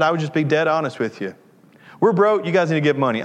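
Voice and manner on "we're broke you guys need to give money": mock confession. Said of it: "I'm just kidding".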